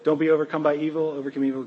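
quick, laughing run through the verse; rushed laughing. Shown as a demonstration. Pastor jokes the verse as a parenting battle cry, laughing and rushed. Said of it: "That was supposed to be funny".

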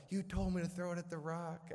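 high-pitched imitation of a crying kid; crying protest. Crying sister blames her brother for the throw, high mock-tearful protest. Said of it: "she's crying".

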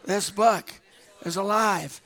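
loud, firm declaration of faith; bold declaration. Real, not acted. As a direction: proclaim it boldly to the room. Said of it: "say it boldly".

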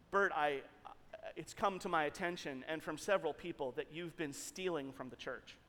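low, soft, hesitant boss voice; imitated solemn boss, hushed and halting; grave accusation. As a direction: reluctantly break the bad news, sinking to very quiet. Boss's reluctant accusation, acted.

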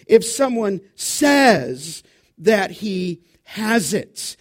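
says stressed and falling, the line slow. Shown as a demonstration. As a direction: press hard on says and slow down. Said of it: "the emphasis on the word says".

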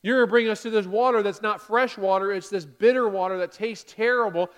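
loud, indignant whine; hammed-up grumble; mock complaining. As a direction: act out a cheated crowd. Voicing complaining people at Marah.

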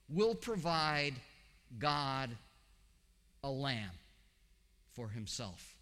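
slow, deliberate "Will provide God a lamb for himself"; Hebrew word order. Shown as a demonstration. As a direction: stress "Will" first, then a drawn-out pause before "God". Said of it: "it would normally say".

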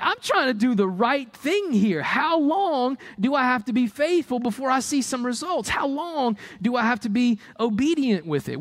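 high, exasperated plea to heaven; lightly acted impatience with God; pleading believer.

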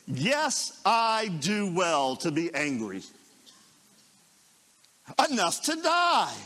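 defiant and petulant, climbing to a pitched cry; defiant Jonah. Retold or imitated. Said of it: "listen to this".

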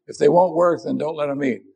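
scolding someone. Retold or imitated. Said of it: "Have you ever had anybody say that to you".

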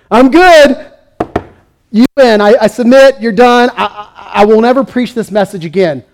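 laughing, high mock give-up voice; hammed-up defeated prophet quitting; mock surrender. Preacher voicing a beaten Jeremiah, mock surrender. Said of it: "he would say".

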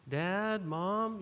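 a hint of a whiny child calling his parents; whiny kid voice. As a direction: whine it out lightly like a kid fighting with his sisters. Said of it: "that really whiny, annoying voice".

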